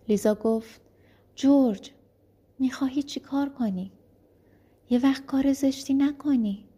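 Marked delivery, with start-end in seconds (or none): 1.3-6.6 sharp high cry of his name, then worried; alarmed plea. Acted. Wife cries out to George in alarm. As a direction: stop him from something rash.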